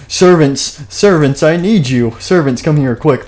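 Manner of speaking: mock-urgent royal summons; calling servants. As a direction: call out for help as a needy king. King calls servants for protection.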